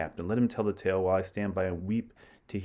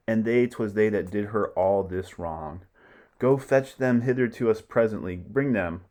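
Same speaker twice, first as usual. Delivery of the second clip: loud, raised command; commanding stage voice; 4 dB louder than usual. Acted. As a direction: order them brought in. Titus orders them fetched.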